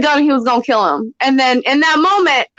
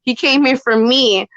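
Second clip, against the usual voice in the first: put-on jealous teenage girl; 4 semitones lower than usual. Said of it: "he turned into a little teenage girl with jealousy".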